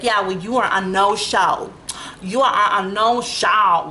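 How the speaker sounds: slow, mocking, snippy; imitating the dispatcher's attitude; mocking rude dispatcher. Imitating the rude dispatcher who calls her a no-show. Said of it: "she's talking to me like that".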